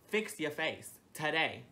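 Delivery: mocking the manager. Mimicking the new manager's order, slow and mocking. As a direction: drag it out like a smug boss. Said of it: "And Ramen Noodles goes".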